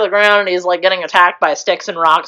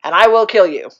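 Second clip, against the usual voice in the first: villain quote; 5 semitones higher, 4 dB louder than usual. Retold or imitated. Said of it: "he's like".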